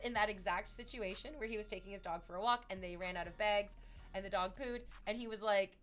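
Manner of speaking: loud, building to a full scream. Real, not acted. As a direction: yell it out with glee. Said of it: "I don't need to scream at you".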